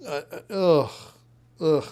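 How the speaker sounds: queasy "ugh" noises; sickened groan. Real, not acted. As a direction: groan as if the stomach is turning. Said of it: "I feel sick now".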